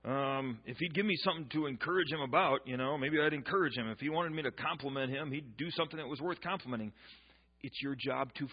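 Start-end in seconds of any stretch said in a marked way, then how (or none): 0.0-6.9 mocking wives. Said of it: "some of you women will be going".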